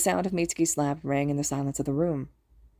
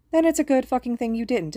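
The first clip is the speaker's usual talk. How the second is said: higher-pitched angry jab; sharp retort; 7 semitones higher, 4 dB louder than usual. A narrator's reading. Mitsuki reacting to Hisashi's near mistake, sharp retort. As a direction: cut in with rising irritation.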